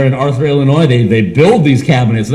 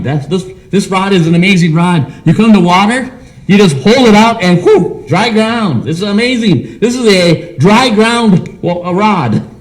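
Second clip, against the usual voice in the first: amazed Moses; 5 semitones higher than usual. Acted. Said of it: "Wait a minute, God".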